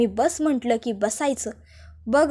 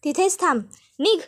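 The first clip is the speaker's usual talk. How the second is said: higher, scornful order to get out; rude order out; 4 semitones higher than usual. Acted. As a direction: throw her out of the house. Aishwarya throws Janaki out.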